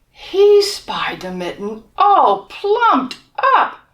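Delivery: put-on lively read-aloud for children; storybook reading. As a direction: tell it like a bedtime picture book. Reading picture book to children.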